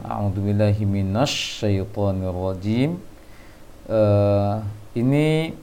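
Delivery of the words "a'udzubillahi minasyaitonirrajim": "A'udzubillahi minasyaitonirrajim" with "minasy" rounded toward "minosy"; bacaan salah ditiru. Retold or imitated. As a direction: imitate the student's pouted-lip shin in "minasyaitonirrajim". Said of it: "Bang Syafri tadi membaca". (meniru bacaan "minasyaitonirrajim" dengan bibir monyong, "na" jadi "no")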